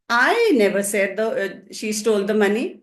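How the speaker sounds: emphatic "I" at the start; stress on I. Shown as a demonstration. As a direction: lean hard on the word "I". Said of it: "the stress is on I".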